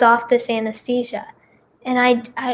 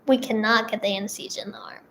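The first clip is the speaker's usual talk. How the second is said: quick, whispered doctor's admission; whispered quote; 7 dB quieter, faster than usual. Retold or imitated. Nurses quietly admitting they can't find a vein, whispered. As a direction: breathe it out as a hushed, fast aside.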